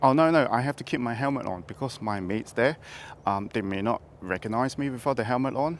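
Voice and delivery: muffled voice inside a helmet. Real, not acted. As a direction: talk from under a helmet. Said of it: "why are you having a helmet on".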